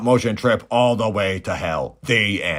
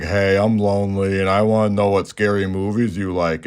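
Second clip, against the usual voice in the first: lightly voiced obnoxious dude; obnoxious caller. Obnoxious caller pestering Drew about scary movies, lightly put-on voice. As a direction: play a mildly annoying phone pest. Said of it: "some dude who's super obnoxious".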